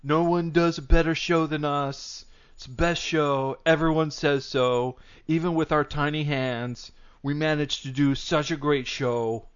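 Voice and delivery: loosely done presidential boasting; slow boast, a hint of impersonation; drawn-out bragging in a half-hearted impression; Trump. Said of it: "went so far away from Trump at the end".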